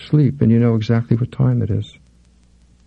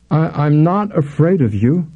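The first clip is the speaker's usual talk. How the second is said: frightened; 6 semitones higher, slower than usual. Acted. Frightened woman feigning courage.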